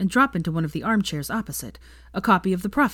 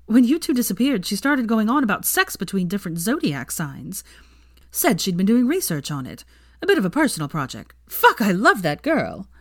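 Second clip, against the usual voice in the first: gleeful gossip; 4 semitones higher, 4 dB louder than usual. Acted.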